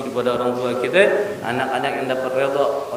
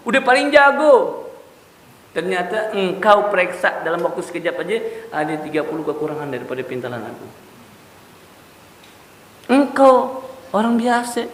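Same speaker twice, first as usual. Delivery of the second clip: put-on anguished old tailor; 5 semitones higher than usual. The old tailor tells the shop owner why he weeps, anguished. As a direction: cry out the regret, then let it fade. Weeping tailor explains his grief.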